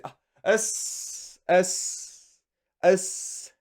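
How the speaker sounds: "Ah, s, s, s." hissed and clipped; mumbled thanks. Shown as a demonstration. Teacher showing a half-mumbled thanks, "Ah, s, s, s.". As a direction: hiss out "Ah, s, s, s." as a lazy thanks. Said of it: "I said".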